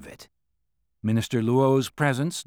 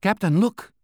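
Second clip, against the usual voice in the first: raised call to the captain; 8 semitones higher, 5 dB louder than usual. A narrator's reading. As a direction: call out sharply. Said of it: "the driver called".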